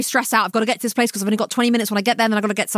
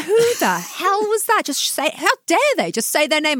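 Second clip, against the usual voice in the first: mock confused Weston; 7 semitones higher than usual. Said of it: "He's like".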